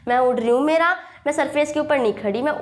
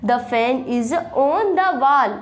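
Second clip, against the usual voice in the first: each word slow and separate, dictating to a class; slow teacher dictation; slow model sentence; much slower than usual. Shown as a demonstration. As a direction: spell it out slowly like a teacher. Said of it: "दीवार पे है".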